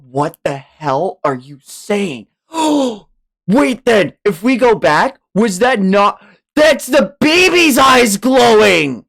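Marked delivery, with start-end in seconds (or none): 3.5-9.0 excited realisation. Real, not acted. Realising the twist.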